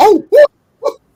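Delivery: very high, very loud, shrill cartoon squeak. Retelling his shocked reaction on learning who was calling: Mickey Mouse-like squeak. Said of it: "Sound like Mickey Mouse".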